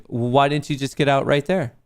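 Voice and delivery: hammed-up whiny chat commenter; mocking chat voice. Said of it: "the fucking geniuses in chat are saying".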